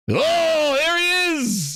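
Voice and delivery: hyped exclamation; excited shout. Real, not acted. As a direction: cheer him on. Cheering the PS5 moment.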